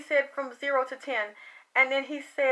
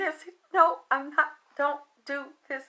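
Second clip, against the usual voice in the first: crying; 3 dB quieter than usual. Retold or imitated. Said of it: "and I started crying".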